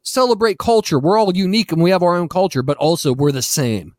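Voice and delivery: high mocking imitation. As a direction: mimic them in a high sing-song. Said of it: "they're like".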